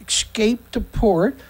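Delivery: "escaped the port" slowly, PORT lifting at the end; slow, questioning rise on "port"; incredulous repeat. Real, not acted. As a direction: echo "escaped the port" as if doubting it. Repeats the phrase in disbelief.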